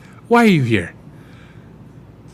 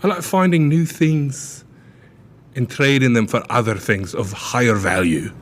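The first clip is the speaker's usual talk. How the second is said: mock Scottish accent. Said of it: "you kinda slipped into a weird accent there".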